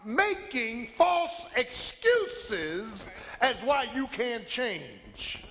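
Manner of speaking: a fed-up divine rebuke, the end rushed; God's voice. Acted. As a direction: voice God scolding, then speed up. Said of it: "So God is saying".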